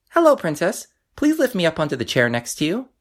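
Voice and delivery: high, small frog voice; squeaky storybook frog; little frog voice. A narrator's reading. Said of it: "he said".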